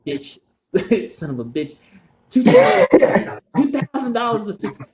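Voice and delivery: a hammed-up high old man cursing; grumpy grandpa. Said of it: "He'd be like".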